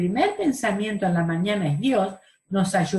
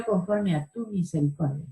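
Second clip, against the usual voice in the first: softer, humble appeal; humble plea; 5 dB quieter than usual. Acted. The psalmist appealing to God's mercy, soft and humble. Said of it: "en un espíritu de humildad".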